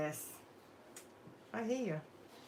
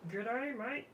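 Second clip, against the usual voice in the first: higher-pitched hammed-up Australian g'day; exaggerated Aussie greeting; 6 semitones higher than usual. Crafter poking fun at her own g'day mate issue, hammed-up Aussie. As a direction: lay on a mock broad Aussie twang. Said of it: "we're having a g'day mate issue".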